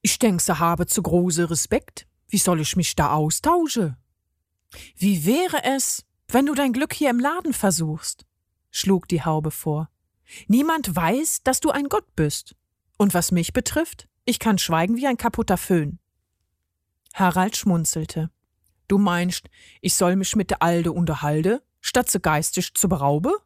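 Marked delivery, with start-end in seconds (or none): 0.0-4.0 lightly voiced dialect-speaking god; plaintive regional character, understated; Harald, complaining. Harald moans that nobody talks, mild complaint in dialect. 4.9-16.0 lilting suggestion, pitched up at first; Ingrid, coaxing. Acted. Hair dryer hood advises Harald, lightly coaxing. Narrator plays the talking hood. 18.9-23.3 lightly voiced dialect-speaking god; Harald, doubtful. Harald questions Ingrid's idea, mildly doubtful dialect.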